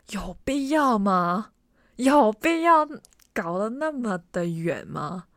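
fed-up rant at the endless walking; exasperated. Retold or imitated. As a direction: complain to nobody in particular. Exasperated at long walk.

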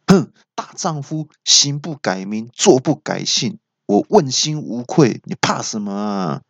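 slow, high-pitched mock-heroic proclamation; indignant declaration. Man answering an accusation of theft, mock indignation. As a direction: declaim it slowly, acting a little offended. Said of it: "我就有点生气了".

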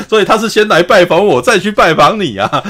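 high, loud laughing brag; laughing boast. Retold or imitated. Masako's boast continues, laughing. (边笑边模仿政子炫耀)

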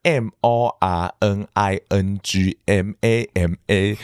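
slow, letter by letter; spelling it out. Shown as a demonstration. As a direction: spell each letter out slowly. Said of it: "快速的带过这个拼音".

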